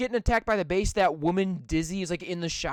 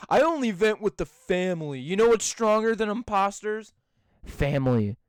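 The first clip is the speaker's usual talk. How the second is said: Vin Diesel. Acted. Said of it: "Vin Diesel standing right there".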